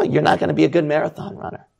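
usual speaking voice

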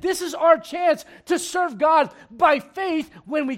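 preached out loud. Shown as a demonstration. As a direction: call it out slow and strong, leaning on our. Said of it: "they could have said".

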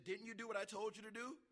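mock scolding question. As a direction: imitate an exasperated teacher checking up. Acted missionary questioning the national.

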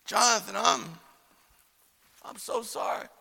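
soft, halting apology; falter, then drop to near whisper; hushed sympathy. Retold or imitated. Preacher to beaten boy, hushed sympathy.

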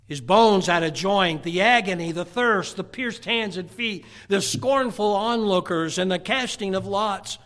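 punched, rhythmic pulpit list; emphatic preaching. Acted. Preacher listing what was fulfilled at Calvary, emphatic. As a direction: drive each fulfilled prophecy home.

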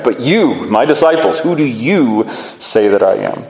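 "you" stressed and set apart with a pause after it; emphatic YOU. Shown as a demonstration. Jesus singles out his own disciples, emphatic "you". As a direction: lean on "you" both times. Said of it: "this emphatic position of you".

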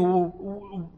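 halting, mildly bewildered retelling; imitating someone taken aback, with false starts. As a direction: act mildly stunned, stumbling into the question. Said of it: "He's just taken aback".

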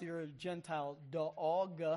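Southern drawl stretching "dog" into three syllables; lightly voiced Southern accent, "dog" drawn out long; Southern "dog" sung out in three syllables. Shown as a demonstration. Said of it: "And if you're from the South".

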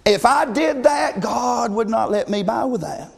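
emphatic shout. Acted. Emphatic preaching climax.

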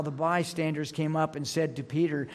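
ordinary talk, nothing marked

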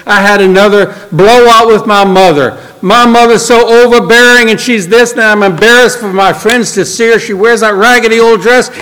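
heated, high-pitched mock complaint about mother; angry venting. Janet venting to her visitor about another blowout with mother, angry. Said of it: "and she just angry like this".

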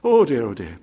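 high, loud mock panic wails; panicky Mister Jelly. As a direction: ham up a jittery little man's alarm. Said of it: "he'd go".

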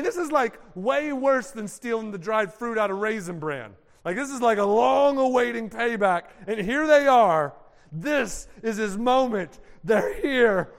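ordinary talk, nothing marked

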